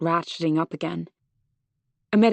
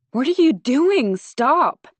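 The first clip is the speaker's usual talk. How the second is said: alarmed shout; 7 semitones higher, 4 dB louder, slower than usual. A narrator's reading. Stranger about to be hit by rock.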